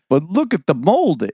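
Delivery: "But look at the molding" said high as an eager real estate agent selling. Retold or imitated. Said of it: "did the total real estate agent thing".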